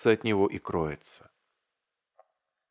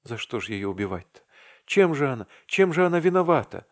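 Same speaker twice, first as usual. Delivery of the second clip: anguished grumble; 6 semitones higher, faster than usual. A narrator's reading. Vasya laments his guilt in a heartbreaking, rising voice. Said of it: "проворчал он мучительным, раздирающим душу голосом".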